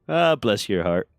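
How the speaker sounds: slow, syrupy "Ah, bless your heart"; drawn-out fake sympathy; sweet condescension. Shown as a demonstration. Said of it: "it's so condescending, but it sounds so nice".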